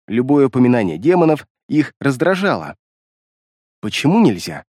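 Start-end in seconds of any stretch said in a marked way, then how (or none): 3.8-4.6 low, sceptical question; distrustful. A narrator's reading. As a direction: ask it low, with mild mistrust. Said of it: "спросил я с недоверием". (недоверчиво, пониженным тоном)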